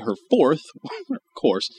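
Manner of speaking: ordinary talk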